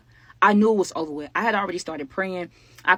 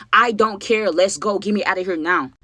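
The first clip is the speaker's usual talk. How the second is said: louder, urgent imitated demand; insistent demand; 5 dB louder than usual. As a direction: push it out, she's not listening. Nyla demanding to leave.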